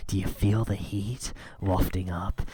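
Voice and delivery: breathy unvoiced hush over the toast; mock ASMR whisper. Streamer whispering to the live stream in mock ASMR, hushed. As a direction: tease the heat in a fake ASMR whisper.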